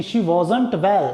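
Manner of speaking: "wasn't" spoken slowly and clearly; slow careful demo. Shown as a demonstration. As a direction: dictate it word by word. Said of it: "कैसे बोलेंगे". (धीमे, साफ़ उच्चारण)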